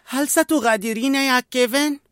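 put-on a touch of sadness in a high boy's voice; mildly sad child's question. A narrator's reading. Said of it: "فسأل بحزن".

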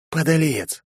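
ordinary delivery

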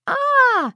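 high loud scream of fright. Acted. Girl and granny scream at near crash, shrill fright. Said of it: "в два голоса заорали".

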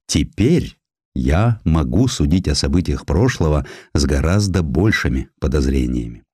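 usual speaking voice

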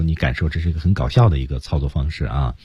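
usual speaking voice

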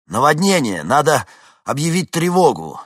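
loud, high alarm call; urgent shout. A narrator's reading. Vincent reports the flood to the dispatcher, loud alarm. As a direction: raise the alarm.

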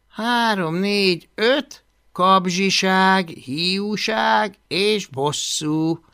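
high, deliberate, drawn-out list; reading aloud. A narrator's reading. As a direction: read the points out slowly from notes. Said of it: "olvasta hangosan".

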